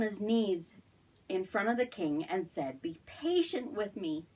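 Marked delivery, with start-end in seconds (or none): 2.8-4.3 a mild, slowed plea; understated begging servant. Acted. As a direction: gently plead for more time. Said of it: "he begged".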